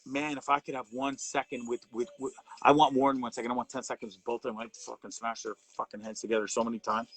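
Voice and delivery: low-pitched, worked-up rant; fired up. Real, not acted. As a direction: seethe through a revenge wish. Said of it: "I'm getting fired up a little bit".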